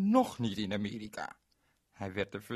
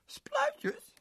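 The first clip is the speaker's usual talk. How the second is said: surprised. Acted. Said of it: "Ze was een beetje verbaasd".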